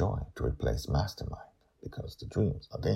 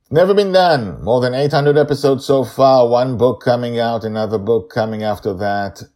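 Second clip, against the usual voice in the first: excited; 10 semitones higher, 15 dB louder than usual. Real, not acted. Author hyping his endless series.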